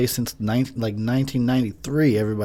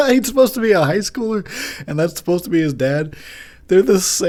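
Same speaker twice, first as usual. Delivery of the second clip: excited; 7 semitones higher, 3 dB louder than usual. Real, not acted. Excited rant about casting.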